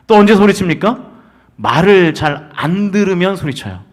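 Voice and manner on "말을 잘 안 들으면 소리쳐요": ordinary talk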